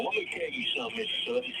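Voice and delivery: high, menacing mock threat; nasty threat. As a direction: bite down on "Mister Sutton". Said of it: "he gets real nasty then".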